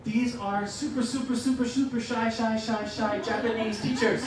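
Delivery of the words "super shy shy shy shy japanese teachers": laughing through the words. Real, not acted. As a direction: laugh as you finish. Laughs at shy teachers.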